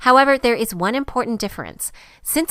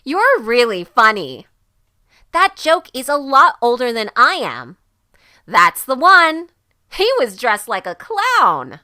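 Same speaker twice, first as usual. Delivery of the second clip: louder, higher and emphatic, slow; exclamatory, with feeling; 3 semitones higher, 7 dB louder than usual. Shown as a demonstration. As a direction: proclaim each line like an exclamation. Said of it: "put some feeling into it".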